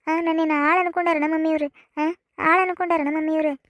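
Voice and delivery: lightly whining daughter's complaint, pitched a little up; whiny complaint. Acted. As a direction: whine to mummy, drawing out the grievances. Daughter complains tearfully to mother. (ಅಮ್ಮನ ಮುಂದೆ ಗೋಳಾಡುವ ದೂರು)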